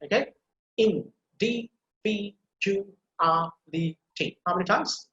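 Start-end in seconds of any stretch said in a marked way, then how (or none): 0.8-4.4 syllable counting. Shown as a demonstration. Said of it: "then you keep counting in your mind".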